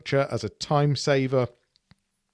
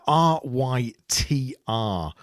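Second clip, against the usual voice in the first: spelled out; much slower than usual. Real, not acted. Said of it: "I don't know if I can pronounce it".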